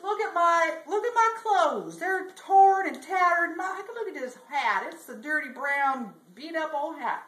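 high-pitched cowboy lament; dismayed complaint. Acted. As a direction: bemoan it with hammed-up dismay, voice lifted. Bubba bemoans his ragged clothes.

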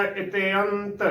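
ਇਤਿਅੰਤ as "ite-ant"; correct pronunciation demo. Shown as a demonstration. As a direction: say ਇਤਿਅੰਤ with "te-ant" as separate vowels. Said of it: "ਇਸ ਦਾ ਸ਼ੁੱਧ ਉਚਾਰਨ ਹੋਵੇਗਾ".

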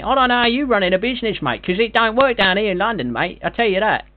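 hammed-up Cockney geezer; brash put-on London bloke; London accent. Prank caller in put-on London voice.

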